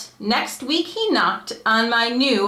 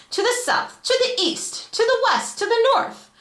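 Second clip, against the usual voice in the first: each direction pitched much higher; rising list; 12 semitones higher than usual. A narrator's reading. The Onceler boasts of shipping everywhere, voice climbing high.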